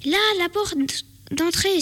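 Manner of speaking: put-on girl excitedly spotting the exit door; excited exclaim. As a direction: point it out with relief. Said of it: "s'exclama Lily".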